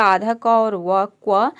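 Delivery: half क and व blended into क्व, "kwa". Shown as a demonstration. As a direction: sound out क, व, then join them as क्व. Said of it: "मिलाकर हम प्रोनाउंस करते हैं". (आधा क और व मिलाकर "क्व")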